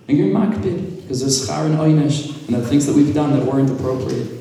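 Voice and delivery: impassioned prayer; rising plea. Retold or imitated. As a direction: pitch climbs as the plea to God intensifies. Rabbi pleading with God.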